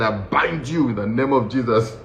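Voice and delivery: hammed-up prayer against an enemy; comic deliverance prayer; mock warfare prayer. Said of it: "started praying against this man".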